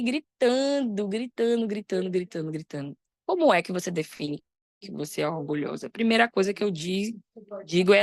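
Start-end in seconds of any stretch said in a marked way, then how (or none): 0.0-3.0 fading repetition. Real, not acted. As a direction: repeat it over and over, dying away. Repeats word, fading away. (repetição que vai sumindo, cada vez mais baixa e grave)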